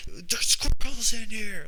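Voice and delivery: loud, high, drawn-out street yell; mock neighbor yell. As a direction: holler a warning at speeding drivers, imitating the neighbor. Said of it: "yelling at people going too fast".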